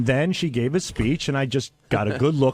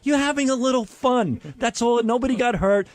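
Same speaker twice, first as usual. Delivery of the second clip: indignant rant; 3 semitones higher than usual. Real, not acted. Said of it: "defending his speech".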